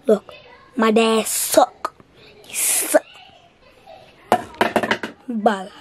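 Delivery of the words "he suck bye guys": breathy whisper of a secret insult. Real, not acted. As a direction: whisper it so dad won't hear. Kid whispering insults about dad.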